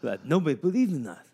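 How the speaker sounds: rousing locker room coach; coach pep talk. Acted. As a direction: fire up the team like a coach. Plays coach giving pep talk.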